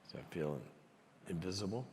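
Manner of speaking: hushed, halting voice of a wounded man; quiet hurt. Retold or imitated. Chairman fighting back tears as he opens up, quiet hurt. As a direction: say it very softly, with long hesitations.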